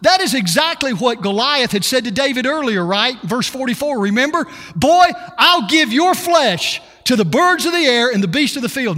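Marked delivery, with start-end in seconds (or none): 4.7-9.0 louder, higher mocking taunt; Goliath's taunt. Preacher quoting Goliath taunting David, mock shout. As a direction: bark it like a sneering giant.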